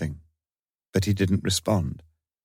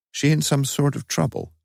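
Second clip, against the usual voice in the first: anxious, softer; 7 semitones higher than usual. A narrator's reading. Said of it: "Suddenly the voice sounded anxious, softer now".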